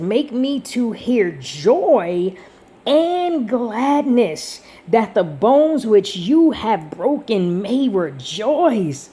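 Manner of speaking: slow, drawn-out verse reading; scripture reading. Real, not acted. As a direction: read the verse slowly, stretching key words. Reads a verse aloud.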